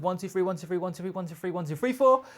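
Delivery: quick, even drum count, lifting on the last number; rhythmic counting. Shown as a demonstration. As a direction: rattle off a drummer's count. Counting out the drum fill grouping.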